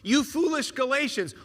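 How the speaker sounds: stern rebuke. Retold or imitated. Paul scolding the Galatians, a sharp rebuke. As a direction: scold them like an exasperated apostle. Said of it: "take this tone with you".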